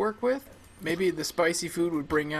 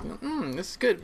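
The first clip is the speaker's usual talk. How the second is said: savoring delicious food; 5 semitones higher than usual. Retold or imitated. Imagined tasting of spicy marmalade toast.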